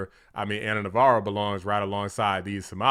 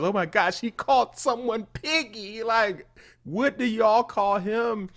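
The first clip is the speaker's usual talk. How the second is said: mock outrage; 10 semitones higher, slower than usual. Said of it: "mocking offended critics".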